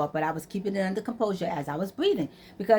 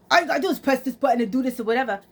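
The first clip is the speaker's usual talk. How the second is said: fast, higher-pitched rattled-off advice; imitating a know-it-all son; breezy son; 4 semitones higher, much faster than usual. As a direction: rush it out like an impatient son. Acts out son's breezy advice.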